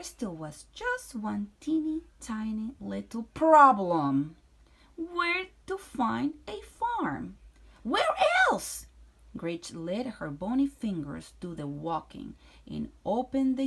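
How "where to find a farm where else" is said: high, slow teasing question; playful high question. A narrator's reading. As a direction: tease the answer out. Reading with playful emphasis.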